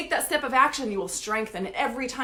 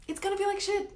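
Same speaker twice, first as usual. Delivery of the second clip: much higher, stressing the word feel; higher repeat; 8 semitones higher, 4 dB quieter than usual. Shown as a demonstration. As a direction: lift the repeat up high and lean on feel. Repeats the line twice.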